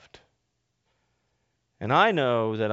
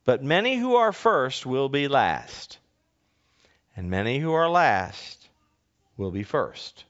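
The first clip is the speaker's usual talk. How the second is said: raised, measured reading of the Gospel; scripture reading; 4 semitones higher than usual. Acted. Pastor reading the Gospel aloud to the congregation, proclaiming.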